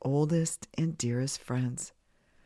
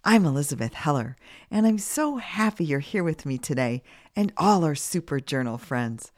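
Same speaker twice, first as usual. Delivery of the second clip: slightly scratchy voice from a cold; 3 dB louder than usual. Real, not acted. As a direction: speak with a scratchy, recovering-from-a-cold voice. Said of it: "my voice is a little scratchy today".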